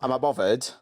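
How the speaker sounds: mock Essex catchphrase; Essex accent. Shown as a demonstration. Giving a friend an Essex catchphrase, mock Essex accent. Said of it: "that's how they talk".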